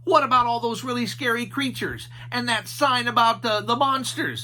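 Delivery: high goofy Shaggy voice. A narrator's reading. Shaggy asking Scooby about a noise, high and goofy. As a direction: ask like a nervous cartoon slacker. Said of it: "said Shaggy".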